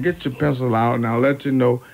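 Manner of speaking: ordinary delivery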